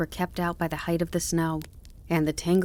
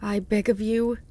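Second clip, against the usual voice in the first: raised-pitch plea from a worn-out fox; begging; 4 semitones higher than usual. A narrator's reading. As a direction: beg weakly for mercy. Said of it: "The fox begged him even harder".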